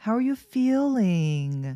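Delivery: feeling with its -ing ending stressed and drawn out. English pronunciation lesson, asking how someone feels, stressed, drawn-out ending of feeling. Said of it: "끝에를 이렇게 강조하고 늘어뜨리는 화법으로".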